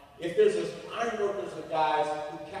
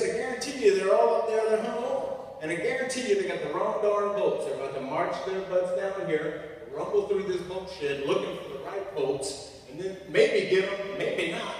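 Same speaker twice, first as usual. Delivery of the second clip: higher, insistent boss voice; redneck foreman; 4 semitones higher than usual. Acted. Foreman explaining the bolt shed job, higher insistent voice. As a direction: hold forth as a worked-up foreman.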